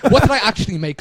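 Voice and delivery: usual speaking voice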